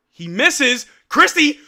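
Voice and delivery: rising sharply into a cry of the name; sudden alarm building to excitement; excited play call. Real, not acted. Streamer calling a live rebound, excitement surging.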